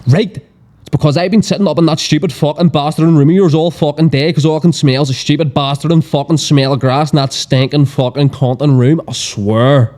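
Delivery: mildly heated, run-on sweary tirade; Belfast family rant. Acted. Mum at the sink finally telling what's wrong, acted ranting. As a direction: act out an exasperated Belfast mum letting rip. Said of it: "a typical Belfast family argue".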